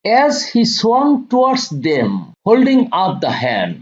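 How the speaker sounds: very slow, deliberate line-by-line reading; slow poem reading. Acted. Teacher reading the poem lines to students, slow and deliberate. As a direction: read each phrase slowly so students can follow.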